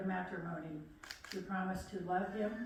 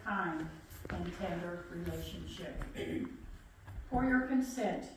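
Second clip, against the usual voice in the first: solemn officiant reading; formal wedding officiant voice; formal vow reading. Acted. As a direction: lead the vows steadily, ceremonial. Officiant reads wedding vows.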